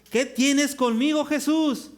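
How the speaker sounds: loud, high, drawn-out outcry; great cry. Acted. Demoniac falls at Jesus' feet, crying out loudly. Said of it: "exclamó a gran voz".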